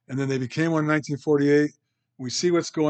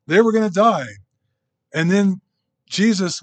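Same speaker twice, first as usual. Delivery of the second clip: higher and louder, building the drama; dramatic storm retelling; 5 semitones higher, 6 dB louder than usual. Retold or imitated. Preacher telling his flock of the disciples in the storm, loud and excited. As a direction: raise the stakes as the boat sinks.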